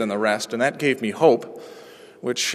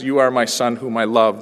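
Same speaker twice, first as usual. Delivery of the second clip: simple loving words; 3 semitones lower than usual. Shown as a demonstration. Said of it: "But most of the time it is".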